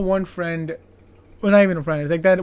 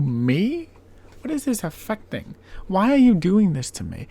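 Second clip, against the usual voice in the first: higher, mock-formal scolding; 4 semitones higher, 3 dB louder than usual. Host scolding the sailor on the beach, mock indignant. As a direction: lecture him with mock indignation. Host voicing own retort.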